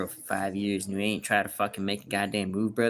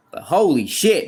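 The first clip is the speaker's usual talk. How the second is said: exasperated; 7 semitones higher, 8 dB louder than usual. Real, not acted. Exasperated exclamation.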